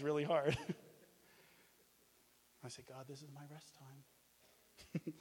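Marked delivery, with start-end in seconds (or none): 2.9-5.1 whiny mock complaint. Joking complaint about being woken.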